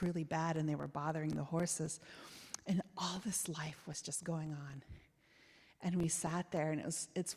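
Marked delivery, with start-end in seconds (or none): 2.7-4.8 hushed, awed whisper. Real, not acted. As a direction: let it fall to a whisper. Wonder at the living farm.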